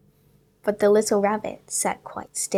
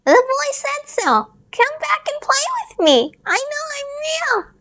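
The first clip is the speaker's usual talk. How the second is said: pleading little rabbit; 4 dB louder than usual. A narrator's reading. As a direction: beg them to come back. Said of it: "said the little rabbit".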